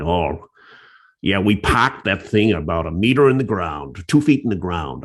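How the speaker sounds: put-on light Brooklyn accent on the quote; a hint of Brooklyn in the old man's words. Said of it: "he had a Brooklyn accent".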